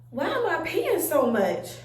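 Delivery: puzzled, exclaimed self-questioning; acted bewildered wondering; baffled question. Acting out her own puzzled reaction.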